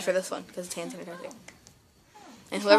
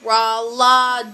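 backwards speech. Shown as a demonstration. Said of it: "Say it backwards".

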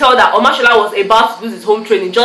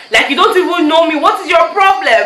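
high-pitched, exasperated complaint; acted irritation, voice pitched up; mock annoyance; 6 semitones higher than usual. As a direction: challenge him as if fed up, pitch raised. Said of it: "It was almost very annoying".

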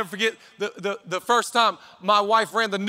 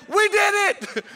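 much higher joyful cry; jubilant; 9 semitones higher, slower than usual. Retold or imitated. Husband almost shouting at the finish line, high and jubilant. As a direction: cheer it like you crossed the line yourself. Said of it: "I almost said".

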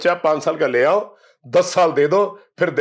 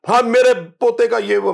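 higher, louder mock fussing granny; doting grandmother; 9 semitones higher, 5 dB louder than usual. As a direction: imitate a grandmother pampering her grandson. Mother fussing over grandson. (दादी की नकल, ऊँची और लाड़ भरी आवाज़)

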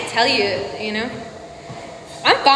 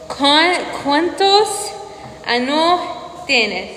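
Spanish accent attempt; much slower than usual. Shown as a demonstration. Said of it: "Is that right?".

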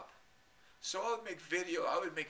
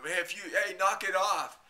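loud, higher scolding bark; angry warning; 4 semitones higher, 10 dB louder than usual. Retold or imitated. Chat moderator angrily warning the troublemaker. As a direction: shut them down like a fed-up moderator. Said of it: "the monitors of that room".

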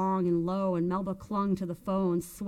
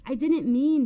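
cut off; 5 semitones higher, 8 dB louder than usual. A narrator's reading. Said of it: "Gigi Zuzzo cut her off".

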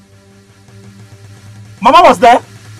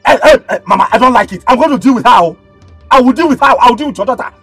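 louder, insistent phone threat; angry complaint; 4 dB louder than usual. Acted. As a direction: warn firmly over the phone.

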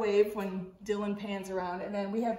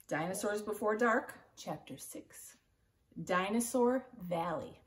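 put-on lively read-aloud narration for kids; expressive picture-book reading to children; story reading. A narrator's reading. Teacher reads chapter book aloud.

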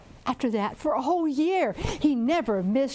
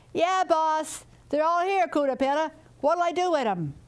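higher, perky little helper; eager chicken voice; 6 semitones higher than usual. Acted. Chicken answering its boss Curupira, high and eager.

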